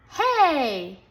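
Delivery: loud, high bark of hey; shouted hey. A narrator's reading. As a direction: punch it out like a dance cry. Dance climax shout.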